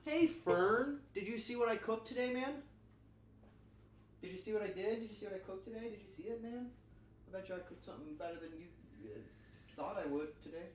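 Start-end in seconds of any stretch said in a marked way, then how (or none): 0.1-8.5 high-pitched boastful buddy voice; high bragging buddy. Pretend. To his friend Fern, a high mock-boastful buddy voice. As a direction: show off your cooking, voice up high.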